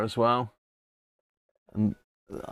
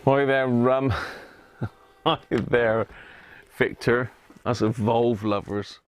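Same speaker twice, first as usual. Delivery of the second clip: hammed-up southern English accent, slow greeting; playful southern English accent, lightly done; mock southern accent; slower than usual. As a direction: put on a jokey southern accent to say hi. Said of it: "with my lovely southern accent".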